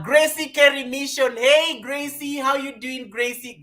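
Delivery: high, bright welcome called out to a viewer; excited greeting. Real, not acted. Streamer calling out a viewer's arrival, excited. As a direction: sing out her name in delight.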